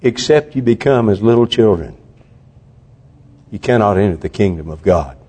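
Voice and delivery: normal talking voice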